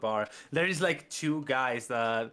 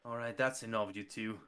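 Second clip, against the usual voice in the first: stern; 5 dB quieter than usual. Acted. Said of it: "he says".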